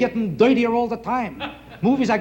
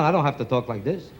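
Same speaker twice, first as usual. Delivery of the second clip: Jewish accent; 9 semitones lower than usual. Shown as a demonstration. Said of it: "I talk like this".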